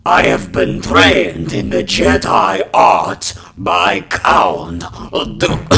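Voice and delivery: loud rasping smoker's voice. Acted. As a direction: grind it out like a heavy smoker. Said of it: "cough up a lung for you".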